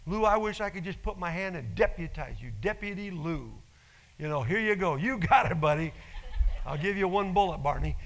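loud, laughing mock deputizing; playful joking. Pastor jokingly deputizing Lou, loud and laughing. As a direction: hand him the badge with a laugh.

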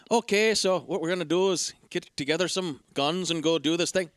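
casual, unresearched Irish accent; bad Irish accent. Shown as a demonstration. Amateur podcaster showing friends he can manage the film's accent, bad Irish accent. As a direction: have a lazy go at Irish. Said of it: "I'm gonna do an Irish accent".

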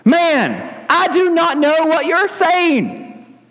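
slow, high protest; mock-indignant sailor; Peter's denial. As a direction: deny it one word at a time. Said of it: "he didn't say man".

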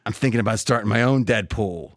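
lightly voiced low gruff cowboy; a hint of an Eastwood growl; Clint Eastwood. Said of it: "you wanna hear my Eastwood imitation".

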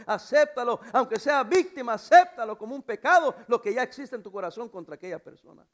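emphatic preaching with punched words; urgent pulpit exhortation. Real, not acted. Preaches with rising force.

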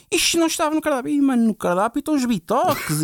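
fast, high angry complaint; aggressive guy. Retold or imitated. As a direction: rush out the complaint angrily. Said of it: "muito agressivo".

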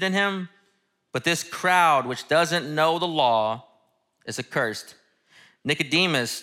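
measured, earnest Bible reading with dialogue lightly voiced; scripture reading. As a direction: read the passage like a preacher opening the text. Reads the scripture passage aloud.

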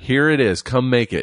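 high, sharp mock outburst; retold snap at a rude customer; snapping at customer. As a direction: fling it at him, fed up. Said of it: "I was just snapped".

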